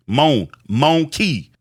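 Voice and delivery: a drawn-out "monkey", said very slowly; New Orleans monkey. Shown as a demonstration. Teaching the proper New Orleans "monkey". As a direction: stretch "Mon-, monkey" syllable by syllable. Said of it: "lost his New Orleans accent".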